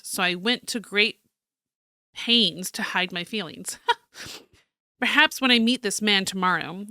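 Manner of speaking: theatrical journal read-aloud; story narration. Acted. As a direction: read it out like a dramatic diary. Reads journal aloud as character.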